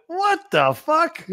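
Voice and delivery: stunned laughing disbelief. Retold or imitated. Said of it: "And I went".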